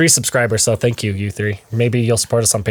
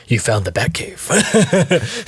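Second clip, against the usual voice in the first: slow laughing mock growl; Batman impression; much slower than usual. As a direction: drag it out, half laughing. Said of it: "I like Batman, where".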